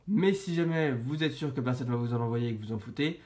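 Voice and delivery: stuffy voice with a blocked nose and sore throat. Real, not acted. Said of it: "j'ai le nez bouché et mal à la gorge".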